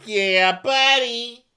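loud, high, stretched-out hoot; hammed-up rallying cry; mock hyped cheer. Imitating guys pumped to build the igloo, loud cheer.

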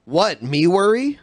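high, questioning catchphrase; Alfred E. Newman. Acted. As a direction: pitch it up like a clueless mascot. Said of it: "This is Alfred E. Newman".

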